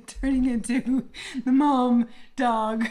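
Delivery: laughing. Real, not acted. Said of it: "Mom dog voices".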